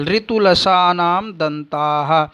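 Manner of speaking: slow, deliberate chant of ऋतुरसाणाम मूर्धा; sutra recitation. Shown as a demonstration. Teacher reciting the Sanskrit rule slowly for students. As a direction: lay out each syllable of the sutra slowly.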